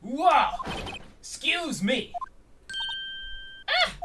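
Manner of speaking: high, loud exclamation; startled outburst. Acted. Detective startled by what he finds, loud surprised outburst.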